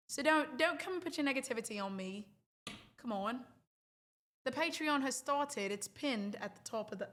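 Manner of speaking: slipping put-on British accent. Shown as a demonstration. Streamer plugging her Patreon to viewers, British accent. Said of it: "I can't do the British accent".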